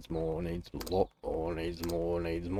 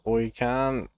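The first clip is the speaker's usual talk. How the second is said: friendly Aussie greeting; 4 semitones higher, 4 dB louder than usual. Shown as a demonstration. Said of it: "that doesn't necessarily mean".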